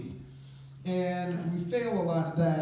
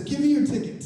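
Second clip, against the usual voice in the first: high, louder order; commanding stranger; 9 semitones higher, 5 dB louder than usual. Retold or imitated. Stranger demands the fans' tickets, loud and commanding. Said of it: "He says".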